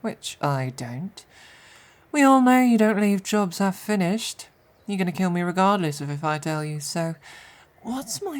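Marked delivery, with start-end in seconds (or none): 2.2-4.5 louder, higher jeering; loud taunt. Acted. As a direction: throw it in their face. Captive taunting loudly.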